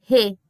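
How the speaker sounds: Re said with a throaty Spanish jota, not a Portuguese G; Spanish jota sound. Shown as a demonstration. Teacher demonstrating the Spanish letter G to her class, throaty jota sound. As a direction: scrape Re from the back of the throat. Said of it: "o G e o J com som como se fosse de R".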